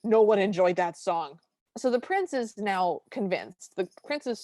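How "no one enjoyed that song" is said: loud, emphatic rebuttal; all-caps retort. Retold or imitated. Reading own notes to co-host about the prince, all-caps retort. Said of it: "my notes just have all caps".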